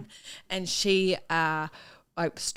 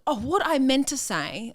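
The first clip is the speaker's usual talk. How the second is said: higher, lightly Canadian backpedal; Canadian accent; 5 semitones higher than usual. Retold or imitated. Colleague backtracking, lightly Canadian accent. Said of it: "I've just dropped the accent".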